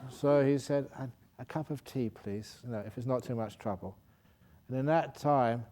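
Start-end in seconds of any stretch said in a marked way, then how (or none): 1.0-4.0 soft, timid request, fading away; humble plea. Retold or imitated. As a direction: ask meekly, not wanting to bother. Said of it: "polite tea request".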